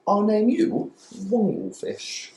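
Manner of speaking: high breathless whisper naming a fish. Acted. Boy whispering a name to the sea creature, hushed. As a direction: whisper it like a delighted child.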